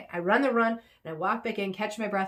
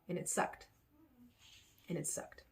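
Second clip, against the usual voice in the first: quiet defeated; 4 semitones higher, 13 dB quieter than usual. Real, not acted.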